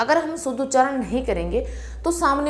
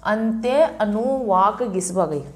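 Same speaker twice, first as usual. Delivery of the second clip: slow mnemonic recital; slower than usual. Shown as a demonstration. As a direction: spell out the trick slowly, word by word. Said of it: "ये इसकी trick है". (धीरे धीरे याद कराते हुए)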